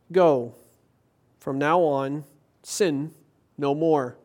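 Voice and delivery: measured, solemn Bible reading; scripture reading. Acted. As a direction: read the Gospel passage gravely to the congregation. Reads scripture aloud.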